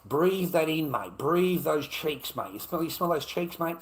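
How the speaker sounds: high, loud, gleeful goading; loud crude taunt. Pretend. Urging viewers to breathe those cheeks, loud mock taunt.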